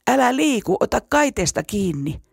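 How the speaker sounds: high, alarmed call; urgent shout. A narrator's reading. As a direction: yell a warning across the bridge. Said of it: "hän huusi".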